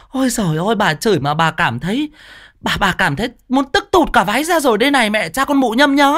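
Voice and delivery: high, fast furious scolding; furious cursing. Acted. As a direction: keep ranting, out of breath with rage. Neighbour still cursing. (chửi tức tối, giọng cao)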